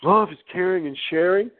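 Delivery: gently parodied spiritual sincerity; imitated answerers. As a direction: mimic someone giving a dreamy stock answer. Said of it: "I got all different types of answers".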